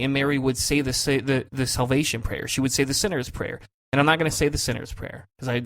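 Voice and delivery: ordinary delivery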